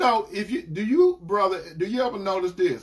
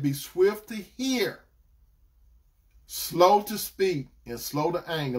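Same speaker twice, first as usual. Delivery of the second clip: slow, deliberate reading of the verse; slow scripture recital. Shown as a demonstration. Preacher reciting scripture to the congregation, slow and deliberate. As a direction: lay each phrase out slowly for the church. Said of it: "Let me say that two more times".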